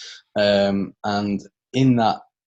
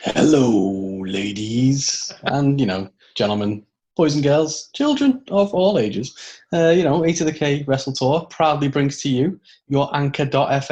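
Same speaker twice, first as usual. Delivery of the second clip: booming ring announcer, building higher; wrestling announcer; 4 semitones higher, 4 dB louder than usual. Pretend. Wrestling announcer intro parody.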